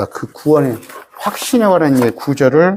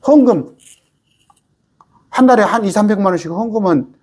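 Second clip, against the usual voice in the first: indignant exclamation; 5 semitones higher than usual. Acted. Mocks big donors' influence.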